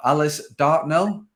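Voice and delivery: Alice Dartnell said slowly, ending on a questioning rise; careful name pronunciation. Shown as a demonstration. Host trying guest's surname correctly, slow careful Alice Dartnell. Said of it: "I'm gonna pronounce it correctly".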